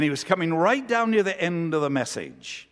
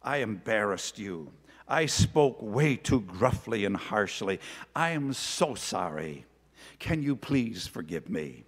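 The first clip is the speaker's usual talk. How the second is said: tearful apology; 5 semitones lower than usual. Retold or imitated. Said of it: "with tears streaming down across his cheeks".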